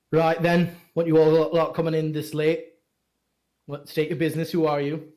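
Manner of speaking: rough city guard challenging strangers; gruff guard. Acted. Guard at the gate challenging the travellers, gruff and suspicious.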